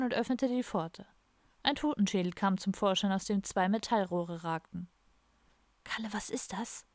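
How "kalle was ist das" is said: hushed and softer, barely voiced; whispered question. A narrator's reading. Don whispering to Kalle as the skull appears, hushed. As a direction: ask under your breath so no one hears. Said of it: "flüsterte Don".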